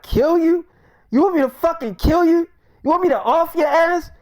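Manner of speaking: high-pitched, appalled disbelief; acted shocked protest; incredulous outburst. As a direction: fire back questions, scandalized, voice jumping up. Retold shock at request to kill.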